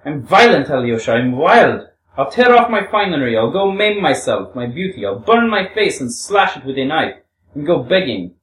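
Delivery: high, loud, hammed-up tirade; hysterical shouting. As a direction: rant defiantly, pitch leaping up and easing at the end. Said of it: "She shouted these last words hysterically".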